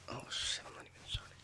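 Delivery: hushed startled whisper. Real, not acted. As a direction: breathe it under your breath. Muttered surprise while filming.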